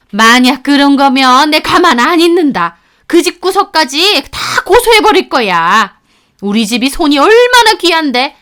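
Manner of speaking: riled-up mother-in-law; building outrage, pitch climbing; indignant threat. Acted. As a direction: threaten them with mounting indignation.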